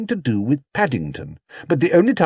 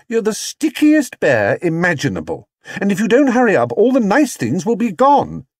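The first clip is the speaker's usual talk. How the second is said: put-on high, bright-pitched girl's voice, eager; a lively little girl hurrying a bear along; young girl Judy; 8 semitones higher, 4 dB louder than usual. Judy scolding Paddington, high and eager.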